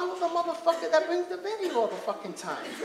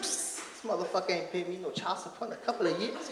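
Lois Lane gossip; 9 semitones lower, 11 dB quieter than usual. Retold or imitated.

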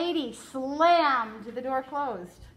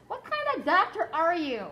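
put-on higher, louder exasperated girl; 6 semitones higher, 4 dB louder than usual. Flora snapping at the doctor, exasperated and louder. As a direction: blurt it out, fed up.

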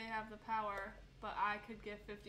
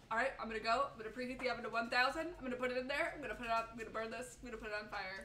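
rattled-off mock threats; lively, mildly worked-up retelling; sister's threats; faster than usual. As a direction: imitate a sister escalating to arson. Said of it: "she was like".

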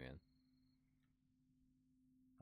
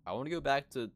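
loud pleading wail; 6 semitones higher, 9 dB louder than usual. Real, not acted. Pleading during scary fight.

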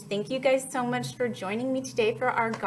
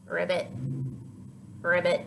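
frog ribbit. Shown as a demonstration. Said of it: "listen to its funny sound".

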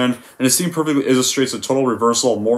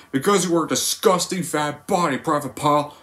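Sergeant Hartman; 3 semitones higher, 3 dB quieter than usual. Retold or imitated. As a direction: yell at the recruit from above. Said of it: "How does the scene go?".

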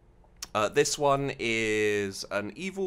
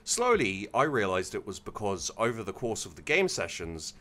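measured, deliberate storytelling read; story narration. A narrator's reading. Streamer reading a submitted evil campaign story to chat, story narration. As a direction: read it out with phrases starting strong and falling away.

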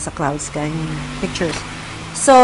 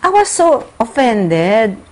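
ordinary talk, nothing marked

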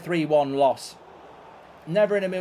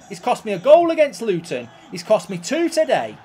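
exasperated rant; 3 semitones higher, 7 dB louder than usual. Real, not acted. Ranting about goals keeper cost.

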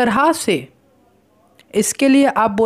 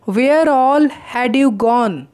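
very slow, each word set apart; slow model sentence; much slower than usual. Shown as a demonstration. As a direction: spell it out slowly for learners. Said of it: "आप इस तरीके से पूछते हैं". (धीमा, साफ़ उच्चारण)

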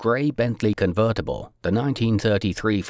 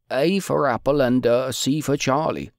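higher voice, lightly voiced officer; a hint of a polite apologetic aide; apologetic chief of staff; 6 semitones higher than usual. A narrator's reading. Chief of staff gives code.

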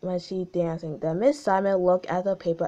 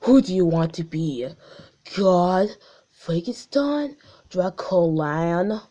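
deep voice; 4 dB louder than usual. Retold or imitated. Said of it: "Gumball said in a deep voice".

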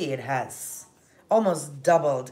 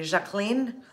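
French pronunciation; 4 semitones higher than usual. Shown as a demonstration. The host shows a viewer her French way of saying the name. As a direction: say Jacqueline the French way, zhak-leen. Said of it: "pronounce it with a little bit of a French accent".

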